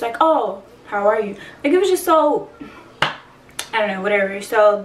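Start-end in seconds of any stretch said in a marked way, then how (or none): 0.2-1.4 offhand retold greeting; nonchalant. Father hearing who is calling, nonchalant imitation. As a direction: react as though it's small talk. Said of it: "he was just so nonchalant".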